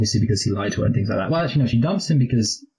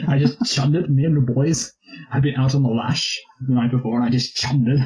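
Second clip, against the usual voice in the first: put-on posh British accent; 3 semitones higher than usual. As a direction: keep the posh English lad voice going. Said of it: "That's a great accent".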